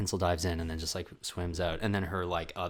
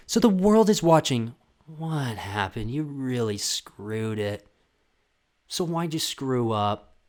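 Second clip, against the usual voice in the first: mock reporter; 3 semitones higher, 4 dB louder, slower than usual. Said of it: "a person there going".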